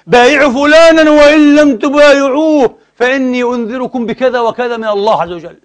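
high, slow, pompous mock preacher voice; mock demagogue cleric. Lecturer mimics a cleric threatening those who refuse allegiance, high and pompous. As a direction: ham up the cleric demanding allegiance.

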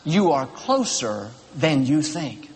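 put-on slow, low and calm, a kindly older man; real calm voice. Older hiker passing Joel on the trail, calm and slow. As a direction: reassure him gently, slowing right down. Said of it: "said in a real calm voice".

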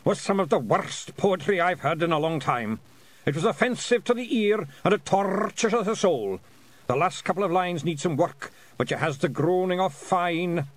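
high, loud, proud Feegle voice; proud praise. Acted. A Feegle chief praising the poet's terrible verse, proud high voice. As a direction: praise the awful poem as a triumph. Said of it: "he said proudly".

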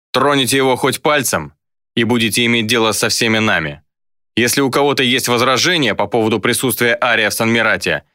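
commanding lieutenant, controlled threat; stern enforcer. Acted. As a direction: lay down the law to a crowd. Luka warns the crowd off.

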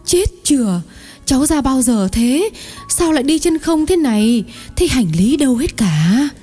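high-pitched exclaiming aunt; astonished cry. A narrator's reading. Aunt recognises her barefoot nephew, crying out in surprise. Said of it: "rồi kêu lên".

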